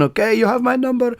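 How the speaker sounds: cheerful put-on Balkan host; a touch of an eager local; imitating a local host. Local rings your phone.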